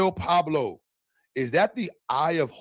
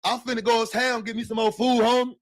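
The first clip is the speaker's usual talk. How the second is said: put-on country accent; 7 semitones higher than usual. Mocking accent on stream.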